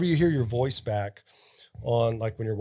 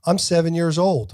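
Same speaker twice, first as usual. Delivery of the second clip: a louder, slightly higher attempt at a British accent on "I'm seven years old"; 5 semitones higher, 5 dB louder than usual. Shown as a demonstration. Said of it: "My British accent, you ready?".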